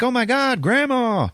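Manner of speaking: very high mock-girlish gasp of recognition; shocked girl. Liz recognising Grandma, in a high mock-shocked girl voice. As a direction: exclaim high, hammed-up shock.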